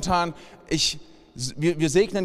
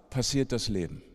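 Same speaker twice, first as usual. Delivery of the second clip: quiet punchline; 7 semitones lower, 7 dB quieter than usual. Acted. Pointed punchline after pause.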